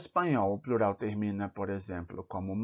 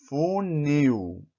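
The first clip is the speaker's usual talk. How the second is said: "funil" with the final NIL lifted and louder; stressed last syllable; 3 semitones higher, 4 dB louder than usual. Shown as a demonstration. Teacher demonstrating the stressed iu in "funil", final syllable louder. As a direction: lean on the end of "funil", fu-NIL. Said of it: "O iu é tônico".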